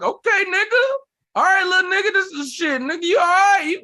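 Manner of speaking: very high, loud mock approval; hammed-up grudging praise; impressed host. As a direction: concede like a surprised drunk uncle. Acts host impressed by killer set.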